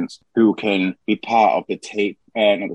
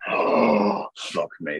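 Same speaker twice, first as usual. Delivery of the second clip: aroused exclamation; 3 semitones lower, much slower than usual. Real, not acted. Reacting to fantasy.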